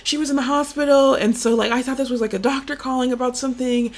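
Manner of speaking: a frightened mom rambling about the hospital; a mother who thought the hospital was calling; worried mom. Retold or imitated. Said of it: "She's like".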